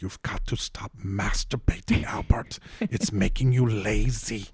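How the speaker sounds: slow, hushed, deadpan narrator, lightly voiced; documentary voiceover. Voiceover scolding Albert Einstein in the bath, hushed and deadpan. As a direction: murmur it like a dry film narrator. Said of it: "you just hear the voiceover".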